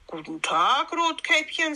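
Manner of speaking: friendly greeting, voice lifting high on the name. A narrator's reading. Wolf greeting Rotkäppchen in the wood, friendly. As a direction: greet the child sweetly, pitch swinging up. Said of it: "sagte er freundlich".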